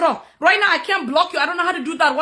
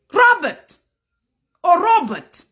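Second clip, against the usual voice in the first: angry call; 4 semitones higher, 4 dB louder, slower than usual. Real, not acted. Calling out the troll angrily.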